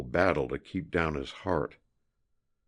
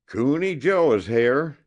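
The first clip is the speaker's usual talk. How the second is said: high, loud yell of arrival; 10 semitones higher, 7 dB louder than usual. A narrator's reading. Scout announcing himself to Sadie, loud yell. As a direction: shout it out as he bursts in. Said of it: "he yelled".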